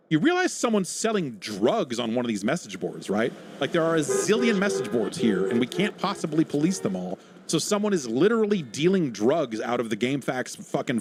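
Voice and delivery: mildly hammed-up worried complainer; mock alarm. Voices alarmed complainer about message boards.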